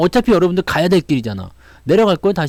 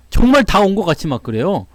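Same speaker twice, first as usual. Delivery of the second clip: ordinary talk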